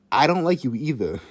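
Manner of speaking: stating the obvious; pointed, obvious comeback. Retold or imitated. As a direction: say it as blatantly obvious retort. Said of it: "In the most obvious tone ever".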